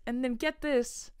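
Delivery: imitated teaser, "get this" drawn out; storyteller's build-up. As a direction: set up the big reveal on "get this". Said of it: "This is a verbatim quote".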